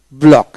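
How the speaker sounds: ব্লক ending in one k sound; silent-letter pronunciation. Shown as a demonstration. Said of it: "সি উচ্চারণ হবে না".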